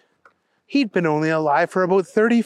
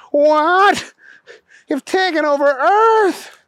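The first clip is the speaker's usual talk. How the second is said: high-pitched, louder burst of disbelief; shocked gasp; 11 semitones higher, 4 dB louder, slower than usual. A narrator's reading. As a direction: exclaim it in high-voiced shock. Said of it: "Booger gasped".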